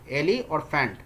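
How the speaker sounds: "एली" and "फैंट" said as two separate pieces; syllable split. Shown as a demonstration. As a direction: break the word into "एली", then "फैंट". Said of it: "एलिफेंट में दो syllable हैं". ("एली" और "फैंट" को अलग-अलग syllable में बोलें)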